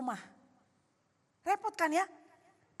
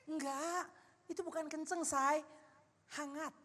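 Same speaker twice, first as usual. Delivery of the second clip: softer, mock-reassuring denial; soothing reply; 6 dB quieter than usual. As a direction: gently placate a sweetheart. Acts out a mollifying reply to spouse. (membujuk dengan suara lembut)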